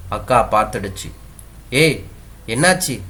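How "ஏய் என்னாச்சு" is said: slightly higher, worried exclamation; mild alarm at someone's tears; mildly alarmed. Acted. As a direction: ask with a touch of panicked concern. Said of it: "Prema அக்கா பதறிடுச்சு".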